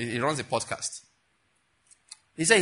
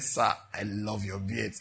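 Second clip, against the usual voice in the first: giovane ammiratore; 7 semitones lower, 4 dB quieter, slower than usual. Retold or imitated. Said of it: "he said".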